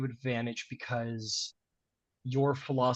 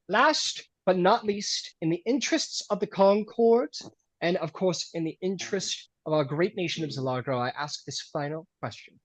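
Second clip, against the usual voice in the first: formal host; 4 semitones higher than usual. Acted. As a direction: announce it grandly. Host poses final question.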